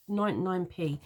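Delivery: "ninety-nine p" in a London accent, the t in "ninety" swallowed. Real, not acted. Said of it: "that's my London accent coming out then".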